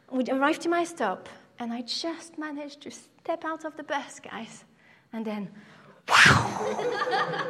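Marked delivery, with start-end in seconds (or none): 6.1-7.5 laughing wow. Real, not acted. Comic climax of story.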